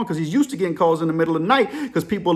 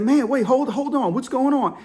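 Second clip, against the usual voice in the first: higher-pitched, bewildered hold on; baffled, voice raised in pitch; confused interruption; 6 semitones higher than usual. Retold or imitated. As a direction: play the boss trying to catch up. Boss interrupting panicked caller.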